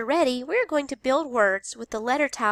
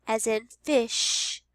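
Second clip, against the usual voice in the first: slow, fish stretched; slow teacher modeling; slow model word; slower than usual. Shown as a demonstration. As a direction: say it slowly. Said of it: "your special sound is".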